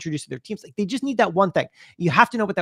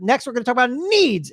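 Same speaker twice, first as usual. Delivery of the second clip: stage presenter demo; 8 semitones higher than usual. Shown as a demonstration. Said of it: "I'm always signposting for people".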